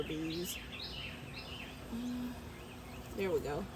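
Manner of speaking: stuffy congested voice. Real, not acted. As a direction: sound a little congested, blocked nose. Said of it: "I know I sound a little congested".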